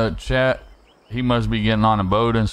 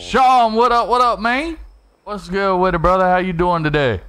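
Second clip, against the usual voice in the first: excited greeting; 8 semitones higher, 3 dB louder than usual. Real, not acted. Greeting a chat viewer loudly.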